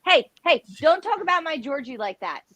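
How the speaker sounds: don't you dare, in mock fury; mock outrage. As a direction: defend your man like a jealous lover. Mock jealous defense of Georgie.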